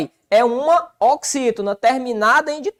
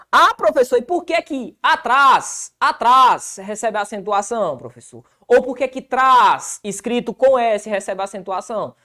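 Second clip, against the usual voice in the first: imagined student asking. Retold or imitated. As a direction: voice of a curious student raising a hand. Teacher voices an imagined student.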